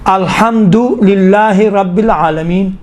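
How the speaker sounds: slow, measured Quran recitation; unhurried verse-by-verse reading; tarteel recitation. Shown as a demonstration. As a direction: draw out the long vowels, stop at العالمین. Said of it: "ترتیل کے صورت میں پڑھیں".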